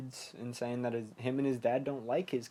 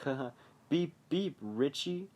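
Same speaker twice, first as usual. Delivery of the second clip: Pennywise; 3 semitones higher than usual. Retold or imitated. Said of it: "it changes into Pennywise".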